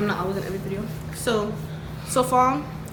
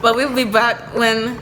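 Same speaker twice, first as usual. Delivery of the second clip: YouTuber voice; 4 dB louder than usual. Pretend. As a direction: drag it out like a channel host. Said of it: "put your YouTuber voices on".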